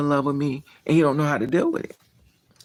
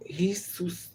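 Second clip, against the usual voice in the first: whisper; 4 semitones higher, 9 dB quieter, slower than usual. Real, not acted. Hesitant whispered aside.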